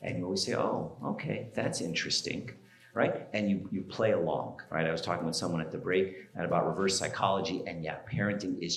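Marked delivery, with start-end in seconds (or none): 0.5-2.5 calm, mildly interested response. Shown as a demonstration. Parent showing how to answer a kid, very calm. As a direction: take it in calmly, a touch softly. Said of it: "you always stay very calm".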